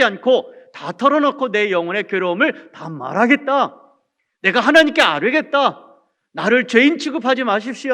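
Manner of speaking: emphatic, aggrieved plea to God; preacher voicing Job's anguished appeal; pouring out grievance. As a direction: pour out a bitter heart as Job. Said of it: "자기의 마음을 하나님께 토로하는 것입니다".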